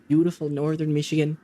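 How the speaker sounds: a light Michigan Yooper accent; Upper Peninsula accent. Shown as a demonstration. Trying the Upper Peninsula accent on request, lightly done. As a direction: try out a northern Michigan accent. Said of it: "do an accent from the Upper Peninsula".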